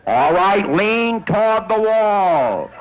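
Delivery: loud, slow call from below. Retold or imitated. Rescuer below on ledge.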